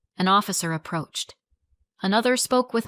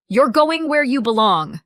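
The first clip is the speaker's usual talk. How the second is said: loud high forceful command; angry; 5 semitones higher, 7 dB louder than usual. A narrator's reading. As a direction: drag him with your voice. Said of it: "she snapped".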